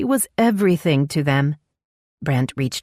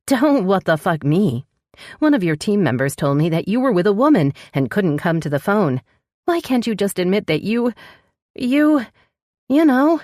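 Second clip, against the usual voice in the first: angry accusation; 5 semitones higher than usual. A narrator's reading. Furious accusation, then pleading needy.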